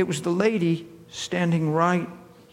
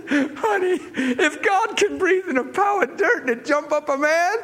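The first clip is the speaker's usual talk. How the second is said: higher, joyful, almost laughing; joyful faith; 8 semitones higher than usual. Retold or imitated. Preacher to the girl, higher and joyful. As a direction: proclaim it with bubbling delight. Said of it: "I said".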